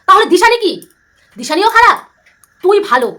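loud mocking indignation; indignant outburst. Real, not acted. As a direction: demand an answer, outraged. Indignant rhetorical questions.

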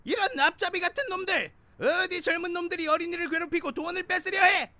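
put-on loud, high angry old man; angry scolding. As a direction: scold the thugs furiously.

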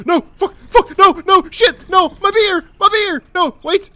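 high, loud furious yelling; frustrated yelling. Real, not acted. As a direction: scream in real frustration at the game. Losing his beer, raging.

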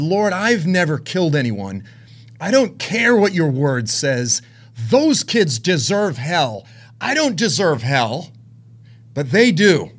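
slow, indignant protest to God; retold anger. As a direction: argue heatedly, leaning hard on each word. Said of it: "This was the anger that I had in me".

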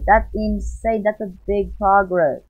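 excited shouting. Real, not acted. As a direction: celebrate to the viewers, loud and high. Gold sapling complete, celebrating.

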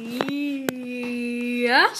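long, drawn-out calm "Yes"; unruffled mother's considered yes. A narrator's reading. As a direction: stretch it out serenely, rising at the end. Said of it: "said Mama calmly sipping her tea".

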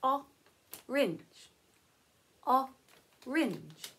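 robot voice, "Orange" broken into its sounds. Pretend. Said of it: "you can only talk like a robot".

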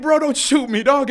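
loud, high-pitched yell; re-enacted panicky holler; shouted plea. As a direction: shout to hold their fire. Re-enacts pleading with armed soldiers.

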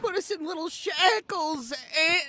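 panicked plea. Acted. Panicked plea about jail.

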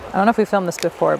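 normal talking voice

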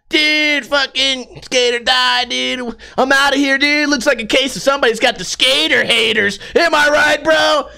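put-on high, bratty skater kid ranting and swearing; a punk kid yelling he won't leave, then cracking; whiny teen skater. Skater kid ranting at a library guard, high and whiny.

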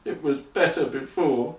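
mumbled. A narrator's reading. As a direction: mutter it to yourself, defeated. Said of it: "he mumbled".

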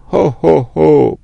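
loud, high sailor's heave-ho call; sailor's shout. A narrator's reading. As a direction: call it out like hauling a rope. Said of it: "wykrzyknąwszy po marynarsku".

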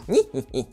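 low, soft snicker; a quiet string of little chuckles. Acted. Snickers while checking up the stairs.

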